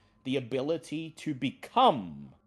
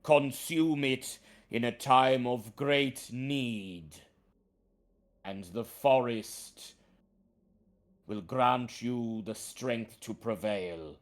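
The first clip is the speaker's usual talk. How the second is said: talking tree; 4 dB louder than usual. Acted. Treant speaks.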